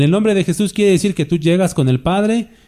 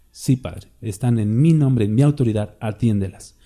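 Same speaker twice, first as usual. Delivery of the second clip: Jesus interceding; 3 semitones lower than usual. Retold or imitated. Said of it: "el Señor Jesucristo".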